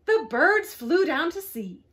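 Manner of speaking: usual speaking voice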